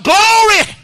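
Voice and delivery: high, loud shouted glory. Acted. Preacher leading the church in praise, loud shout. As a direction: lift the roof with it. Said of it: "Lift your hands and shout".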